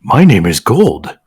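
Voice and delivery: slow, lightly voiced formal introduction; a hint of a stiff gentleman. The gentleman lion introduces himself to the baboon, slowly and formally. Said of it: "he said formally".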